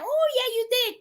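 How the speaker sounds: high, bright mock vendor; cheery vendor reply. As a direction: sing out a friendly yes. Vendor greeting returning customer.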